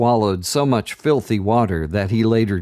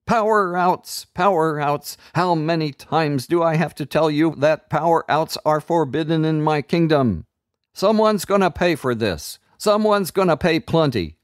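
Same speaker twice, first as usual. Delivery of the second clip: much higher, furious tyrant voice; raging wizard; 7 semitones higher than usual. A narrator's reading. Enchanter berating the children in a rage. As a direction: scold them like a mad king.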